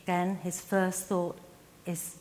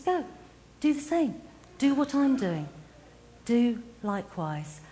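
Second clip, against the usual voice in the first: Jesus urging, higher and louder; a rousing call from Jesus to his followers; Jesus commanding; 4 semitones higher, 3 dB louder than usual. Acted. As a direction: send them out with urgency.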